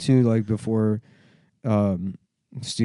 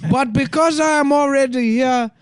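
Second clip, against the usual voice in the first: high, measured speech-synth voice; computer voice; 6 semitones higher than usual. Retold or imitated. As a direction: speak like a glitchy speech computer. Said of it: "my computer voice".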